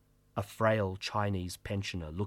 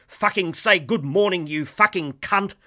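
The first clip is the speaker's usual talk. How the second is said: angry yell; 9 semitones higher, 9 dB louder than usual. Acted. Ghoul wrestles passenger to floor.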